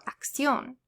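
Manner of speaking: acción stressed on CIÓN, acCIÓN; stress on accented syllable. Shown as a demonstration. Teacher showing learners accent-mark stress, acCIÓN. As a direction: lean on the final syllable of acción. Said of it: "where you're gonna place the emphasis".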